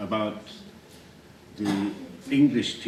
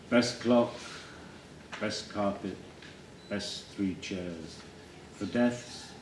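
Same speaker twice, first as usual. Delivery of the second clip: spare, quiet poetry reading; poem recital; 8 dB quieter than usual. Acted. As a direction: recite in short, separated phrases. Recites his own poem.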